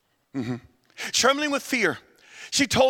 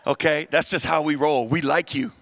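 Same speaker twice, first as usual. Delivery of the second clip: 1 coaxing Peter; 4 semitones lower than usual. Retold or imitated. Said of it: "He goes".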